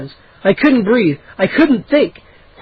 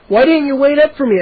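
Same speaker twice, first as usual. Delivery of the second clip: higher, demanding; angry demand; 7 semitones higher than usual. A narrator's reading. Boy angrily demanding why his cousin left. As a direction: demand an answer with annoyance. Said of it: "I demanded angrily".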